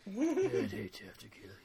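hushed, whispered impersonation; Fitz. Acted. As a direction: whisper the threat, barely audible. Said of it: "a pretty good Fitz impersonation".

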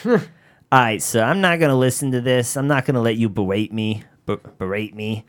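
lightly voiced scratchy Bostonian lady; hint of a no-nonsense Boston lady; scratchy Boston voice, mock firm; Donna. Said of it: "such a scratchy voice".

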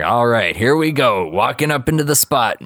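lightly acted excitement, rising in pitch; mock hype. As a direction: imitate pals hyping up a night out. Friends hype arrival at bar.

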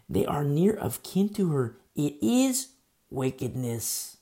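firm, emphatic Bible reading; scripture reading. A narrator's reading. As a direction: read the verse out with weight. Reads scripture aloud.

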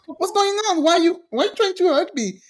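high-pitched mock bewilderment; retold alarm. Daughter startled by mom's hug attempt, mock alarm. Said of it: "I felt attacked".

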